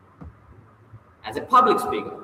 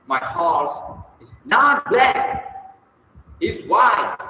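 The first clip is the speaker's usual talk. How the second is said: "not" stretched very slow and high, "white" raised; emphatic contrast; 8 semitones higher, 3 dB louder, much slower than usual. Shown as a demonstration. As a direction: punch "not" and "white" against each other. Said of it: "emphatically when you say".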